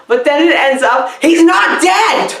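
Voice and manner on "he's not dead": mock shock. Real, not acted. Reviewer telling viewers about a twist, mock shocked shout. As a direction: blurt it out like you can't believe the plot.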